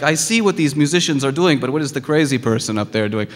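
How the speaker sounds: put-on alien with a light Russian accent; puzzled onlooker, hint of Russian accent. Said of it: "the alien has a Russian accent".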